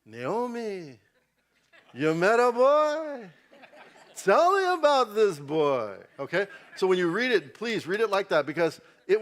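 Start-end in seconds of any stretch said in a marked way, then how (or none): 0.1-5.9 put-on higher, louder, slow Jewish mother accent; a Jewish mother straight out of Fiddler on the Roof, Jewish accent; slow, high Jewish accent, drawing out the words; Jewish woman accent. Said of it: "you have to be a Jewish woman".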